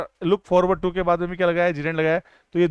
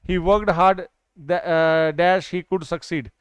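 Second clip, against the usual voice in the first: 1 slow example read; much slower than usual. Shown as a demonstration. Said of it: "उसने मेहनत की".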